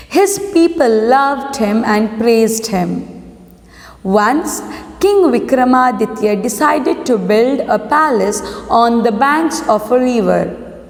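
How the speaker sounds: slow, measured classroom reading; story read-aloud. A narrator's reading. Teacher reads a lesson to students, measured story read-aloud. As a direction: read the title and opening deliberately.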